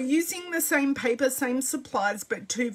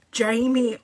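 normal talking voice

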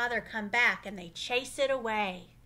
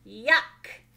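disgusted; 8 dB louder than usual. Acted. Carlos rejects worms.

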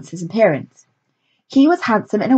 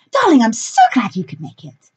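theatrical director voice; 4 semitones higher than usual. A narrator's reading. Lilith character voice.

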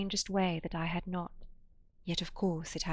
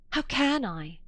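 higher, weak and quavering; 6 semitones higher, slower than usual. A narrator's reading. Woman doubts she can bring him back, quavering. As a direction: let the voice wobble. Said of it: "Her weak voice quavered".

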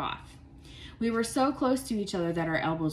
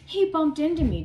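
angry; 9 semitones higher, 8 dB louder than usual. A narrator's reading. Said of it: "Darren said".

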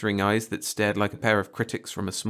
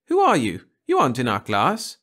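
demanding; 4 semitones higher, 6 dB louder than usual. Acted. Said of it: "cocked her head slightly and demanded".

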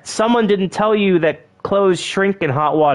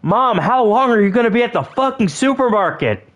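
mock yelling; 3 semitones higher than usual. Kid on the phone to mom at the supermarket, mock yelling. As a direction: stretch out the complaint in playful exasperation. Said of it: "Joey, stop yelling".

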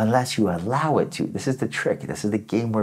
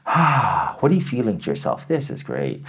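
contented sigh. Shown as a demonstration. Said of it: "I'll give you an example".

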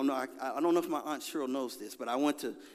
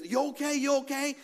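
high-pitched, imitated rescuer; high mock concern; concerned bystander; 8 semitones higher than usual. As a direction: check on a victim in a put-on high voice. Bystanders checking on him after rescue.

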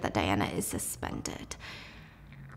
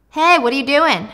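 cocky rich guy; 5 semitones higher, 7 dB louder than usual. Acted. Jay confronting Diana.

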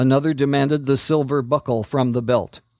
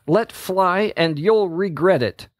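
higher, ringing warning shout; 6 semitones higher than usual. Acted. Princess shouts at the faithless ranger, bold shout. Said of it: "she shouted".

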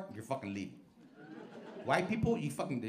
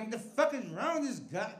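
high, loud frustrated rant at the car behind; angry driver; 8 semitones higher, 11 dB louder than usual. Retold or imitated. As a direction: yell at the tailgater, then honk. Yelling at tailgating car.

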